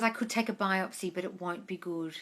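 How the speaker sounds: soft, low doubtful vet; quiet vet voice. Retold or imitated. Vet warning owner about biopsy, hushed and low.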